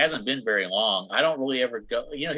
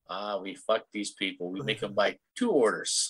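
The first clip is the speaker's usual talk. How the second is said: put-on slow, would-be French accent; muddled foreign accent; 2 semitones lower than usual. Scheming French sellers making customers buy twice, muddled accent. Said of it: "I'm not sure what accent that was".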